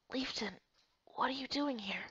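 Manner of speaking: weak and faint. Acted. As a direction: speak as if just pulled from the water. Rescued heroine speaks weakly.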